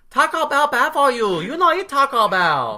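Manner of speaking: put-on loud, high Asian-accented scolding; ornery mock Asian accent. Hospital staffer scolding patient over lunch, mock Asian accent. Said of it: "she is ornery as hell".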